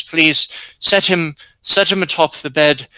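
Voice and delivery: lightly voiced old nursemaid; caring old woman. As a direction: give gentle orders as a caring old lady. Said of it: "where she stays and says".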